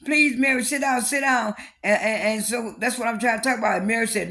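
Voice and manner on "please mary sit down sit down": high, loud begging to sit; pleading. Retold or imitated. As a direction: plead urgently, voice pitched up and louder. Whitney begs Mary again.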